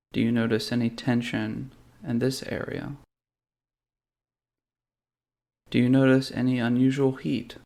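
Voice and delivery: calm, measured meditation guide with long pauses; guided meditation. Real, not acted. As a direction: lead them gently through a body scan, unhurried. Leads a guided body-scan meditation.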